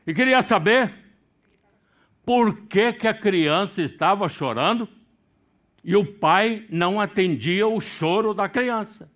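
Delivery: loud, high sermon delivery; full-force preaching. Acted. Preacher telling the airport story to congregation, loud fervent preaching. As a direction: build it up with fervour.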